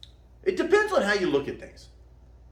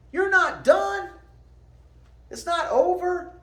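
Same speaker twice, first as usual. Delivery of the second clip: motivational shout; 11 semitones higher than usual. Real, not acted. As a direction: shout it to lift them up.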